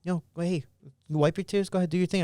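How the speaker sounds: a hint of a brisk, composed mom; imitated mother. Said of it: "she's just like".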